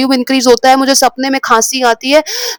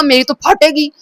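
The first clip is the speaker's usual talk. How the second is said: normal talking voice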